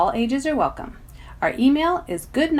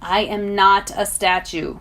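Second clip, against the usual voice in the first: slightly irritated; 4 dB louder than usual. Acted. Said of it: "a slightly irritated wind".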